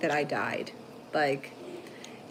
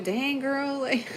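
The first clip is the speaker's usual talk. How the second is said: high, slow, giggly teasing; amused mock exasperation; laughing tease; 8 semitones higher, slower than usual. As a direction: tease the kid through laughter. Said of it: "and I'm like".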